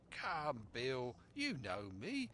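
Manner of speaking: lightly voiced wheedling sea dog; a hint of a sly buccaneer; coaxing pirate. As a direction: wheedle an old shipmate. Black Dog coaxing the captain.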